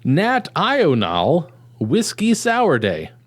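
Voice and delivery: slow, drawn-out title; exaggerated announcement. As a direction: stretch every word of the name. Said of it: "Are you, are you okay?".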